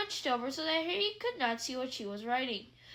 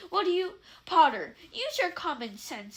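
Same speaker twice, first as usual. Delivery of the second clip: louder, sharp stern snap; snapped; 3 semitones higher, 6 dB louder than usual. A narrator's reading. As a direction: bite the words off like a strict teacher. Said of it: "snapped Professor McGonagall".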